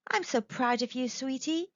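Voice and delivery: soft, tender praise; gently proud. Acted. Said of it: "Lillian tender".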